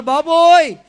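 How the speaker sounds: retold yell of a patient whose wound is being washed; screaming in pain. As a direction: beg the doctor to stop, crying out in pain. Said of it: "నేను అరుస్తున్నాను".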